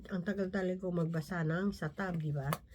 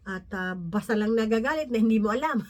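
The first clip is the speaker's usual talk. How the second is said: said through a real laugh; amused laughing delivery; 6 dB louder than usual. Real, not acted. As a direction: laugh while telling it. Laughing about sudden anger.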